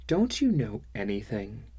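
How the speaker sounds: a lightly voiced sneer; scornful. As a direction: talk down to him with scorn. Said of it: "more than a little scorn in her voice".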